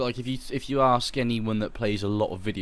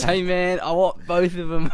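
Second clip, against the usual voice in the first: put-on hillbilly accent; 7 semitones higher, slower than usual. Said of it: "You sounded like a hillbilly".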